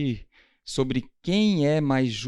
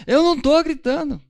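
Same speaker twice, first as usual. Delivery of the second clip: very high, loud yelled denial; mock shouting denial; 13 semitones higher, 9 dB louder than usual. Spouse denying yelling in a mock argument, shouting high. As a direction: scream that you're not screaming. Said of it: "Quem nunca ouviu alguém gritar assim".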